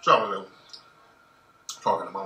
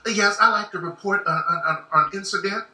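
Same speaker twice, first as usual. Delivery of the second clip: white voice. Retold or imitated. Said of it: "put your white voice on".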